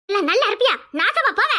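high, loud furious curse, breaking into a shout; furious cursing shout. Acted. Sister screams curses at the woman attacking her brother, furious.

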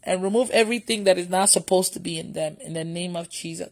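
soft, low retold prayer; hushed and unhurried, addressing God; inward prayer retold. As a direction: pray it gently, as if in your heart. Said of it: "I just told God in my heart".

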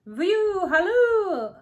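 high, loud hunting halloo; tiny shout. A narrator's reading. The queen arrives from the far corner, tiny shout. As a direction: call out high from far across the room. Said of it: "a tiny shout of".

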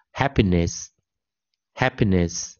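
"happiness" very slow, hap stressed, ness weak; slow model pronunciation. Shown as a demonstration. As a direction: draw out "happiness" with weak endings. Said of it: "通常念E".

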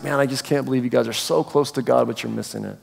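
understated weary dismay, dropping off quietly; sighing disappointment. Acted. Jesus turning from the Pharisees, sighing in mild disappointment. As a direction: softly let down, sinking away at the end. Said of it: "He sighs".

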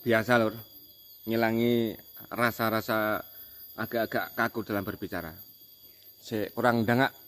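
talking while smoking; words around a cigarette; cigarette in mouth. Real, not acted. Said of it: "sambil ngerokok".

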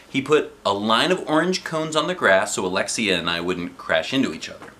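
lively storybook narration; reading to children. Acted. Dad reading a chapter book to his daughter, in a lively storybook voice. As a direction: read it out with bright energy for kids.

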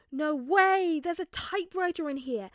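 high, loud, amazed cry; excited exclaim. A narrator's reading. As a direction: gasp at the find. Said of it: "Ned exclaimed".

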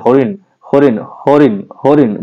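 "হরিণ" closed quickly on the n; quick final n. Shown as a demonstration. Teacher showing the final letter is said quickly, quick final n. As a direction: cut the last sound of "হরিণ" short. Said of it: "মধ্যাহ্নটা কিন্তু তাড়াতাড়ি উচ্চারণ".

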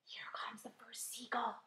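slow, hushed whisper. A narrator's reading. James warning the others of the seagull, whispered. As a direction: whisper a warning of what is approaching. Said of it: "whispered James".

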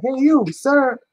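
a lightly voiced fish, high and slow; bubble speech. Crafter voicing a fish in bubble speech, slow and high. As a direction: coo it like a little fish talking. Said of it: "in bubble speech".

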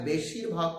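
বেশিরভাগ pronounced with deliberate weight; stress on বেশিরভাগ. Real, not acted. Speaker flags his word choice to viewers, stressing বেশিরভাগ. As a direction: lean firmly on the word বেশিরভাগ. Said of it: "শব্দটা আমি উচ্চারণ করছি".

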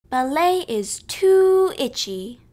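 put-on child's protest, drawn out and loud; loud complaint. A narrator's reading. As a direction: complain loudly, stretching the words. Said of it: "But I was very loud".

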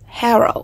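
"Hero" with the first syllable stressed; teacher's careful model of "Hero", front-stressed. Shown as a demonstration. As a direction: lean on HE in "Hero". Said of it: "âm thứ nhất".

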